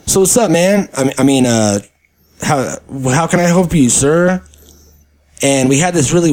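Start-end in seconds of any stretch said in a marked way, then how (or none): 0.1-4.4 flustered clerk. Retold or imitated. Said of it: "he was like".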